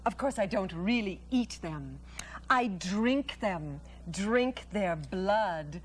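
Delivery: slow, relishing spider; Charlotte the spider. Acted. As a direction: savour the word blood.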